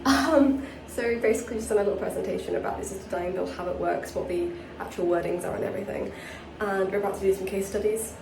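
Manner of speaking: hushed, hiding in a bathroom; whispering while hiding. Real, not acted. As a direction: keep it low so nobody hears. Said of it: "I'm hiding in the bathroom again".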